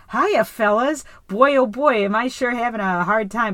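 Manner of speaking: lightly acted folksy stalling patter; Bill Burr improvising. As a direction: put on a hint of hammy, improvised chumminess. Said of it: "Bill Burr trying to, yeah, like, improvise".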